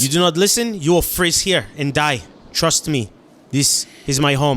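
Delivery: a touch of urgency, stilted speech; lightly acted warning to the others; lightly voiced character. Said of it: "He says".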